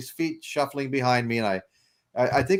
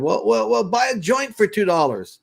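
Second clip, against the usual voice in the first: high, louder bargaining pitch; haggling hustler; 11 semitones higher, 5 dB louder than usual. Retold or imitated. Beach dealer haggling with a tourist, high and loud. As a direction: talk him down to a joint.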